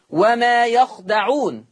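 «وما يخدعون» drawn out in Qur'anic recitation; slow Hafs reading. Shown as a demonstration. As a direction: recite «وما يخدعون» slowly, fatha on the ya, sukun on the kha. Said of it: "يخدعون بفتح الياء". (قراءة «وما يخدعون» برواية حفص ببطء)

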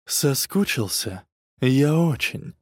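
slow, breathy and seductive; a hint of a sultry whisper. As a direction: breathe the words close to his ear. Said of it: "с придыханием шепнула".

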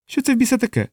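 high, alarmed cry; startled cry. A narrator's reading. Gutierrez cries up at the rustling trees in alarm.

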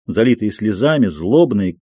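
usual speaking voice

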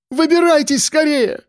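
very high, alarmed shout; urgent cry. A narrator's reading. Woman urging the men out of the wreck, urgent cry. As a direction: call out desperately to hurry. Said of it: "закричала Олеся".

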